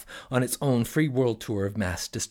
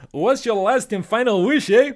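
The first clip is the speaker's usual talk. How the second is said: high booming genie; loud, high magical genie; 12 semitones higher, 8 dB louder than usual. Acted. Genie voiced in story.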